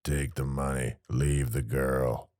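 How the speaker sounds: slow flat mock robot; imitating a robotic automated voice. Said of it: "Ike imitated the automated voice".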